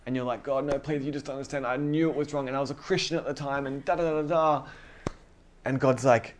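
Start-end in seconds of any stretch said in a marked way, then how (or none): 0.4-4.7 higher-pitched protest, trailing into da-da-da; half-acted, pleading self-defence; mock pleading. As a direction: plead your excuses in a mock fluster.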